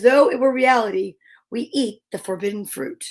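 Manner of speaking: measured, earnest reading of a daily quote; solemn quote reading. Acted. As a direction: read it like a meaningful message. Reads the daily quote aloud.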